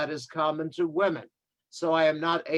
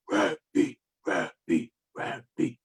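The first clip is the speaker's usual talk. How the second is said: crowd cheering; 4 semitones lower than usual. Retold or imitated. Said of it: "they're all cheering".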